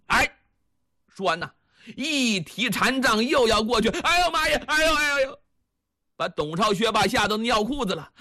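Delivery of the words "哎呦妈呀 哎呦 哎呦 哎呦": high, panicked yelping, much higher; cowardly guard shrieking in fear; terrified yelps. Acted. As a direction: squeal in fright like a cornered coward.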